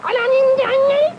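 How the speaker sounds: very high, pinched falsetto; squeezed high voice. Pretend. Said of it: "iniipit ka lang".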